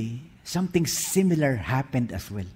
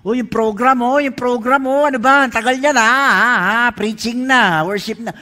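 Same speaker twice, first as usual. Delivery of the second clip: loud, high fretting about the program; impatient complaint; 6 semitones higher, 8 dB louder than usual. Retold or imitated. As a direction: fuss loudly, impatient. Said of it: "Parang sabi ko". (malakas at naiinip na reklamo)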